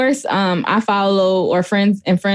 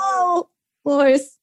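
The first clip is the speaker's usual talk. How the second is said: mock sob; 7 semitones higher, slower than usual. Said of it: "I said".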